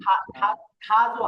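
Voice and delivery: খাজু with a hard breathy খা, drawn out slowly; strong aspiration, slowly. Shown as a demonstration. Teacher slowly models খাজু for the class, strong puff of air. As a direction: split it up, খা, খা, then খাজু with heavy breath. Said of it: "হালকাভাবে বলবেন না".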